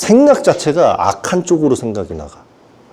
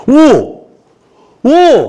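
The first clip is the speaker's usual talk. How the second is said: amazed gasp; 11 semitones higher, 5 dB louder, much slower than usual. Acted. Peter finds he floats.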